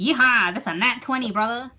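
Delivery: loud, high celebratory cheer; excited whoop. Real, not acted. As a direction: whoop it out over a perfect roll. Game master cheers a natural twenty.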